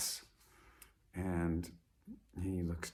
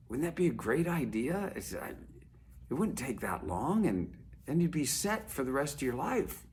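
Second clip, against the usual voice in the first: eager businessman; 2 semitones higher than usual. Acted. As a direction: sell him the dream, building enthusiasm. Businessman pitches his grand plan.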